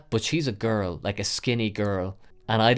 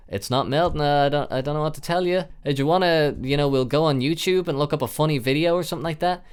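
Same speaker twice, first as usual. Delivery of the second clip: higher, rushed nervous coaxing; flustered reassurance; 6 semitones higher, faster than usual. Retold or imitated. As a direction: talk her down, panicking inside. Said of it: "And I was just like".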